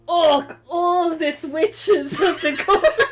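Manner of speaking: high, loud, cracking up; laughing mock quote. Mocking the AUKUS statement, laughing high and loud. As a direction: try the line but dissolve into laughter. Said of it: "AUKUS were like".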